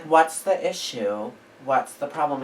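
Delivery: slow, level, unbothered challenge; composed, unimpressed demand; calm confrontational. Shown as a demonstration. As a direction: ask it coolly, like nothing scares you. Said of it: "I say it like this".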